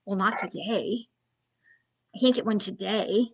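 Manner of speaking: reluctant client. Retold or imitated. Coach voicing a hesitant client's reply, quiet and reluctant. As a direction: mumble it like an unsure client. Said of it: "client's reluctant reply".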